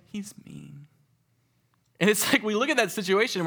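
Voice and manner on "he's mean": put-on higher, soft pouting child; sulky kid. Camper stubbornly blaming the other boy, softly pouting. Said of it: "And they're like".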